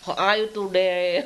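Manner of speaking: put-on slow, heavily Javanese-accented "How are you today?"; a friend teased for her accent, Javanese English. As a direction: say it in thick Javanese English, slowly. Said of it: "ngomongnya tuh pelat".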